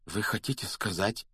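hoarse, hushed start of a question. A narrator's reading. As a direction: begin hoarsely, barely daring to ask. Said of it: "хрипло начал Гарри".

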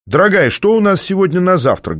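high, lively call; cheerful call-out. A narrator's reading. Man asking his "darling" about breakfast, cheerfully calling out. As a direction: call it out brightly, pitch up. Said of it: "бодро выкрикнул я".

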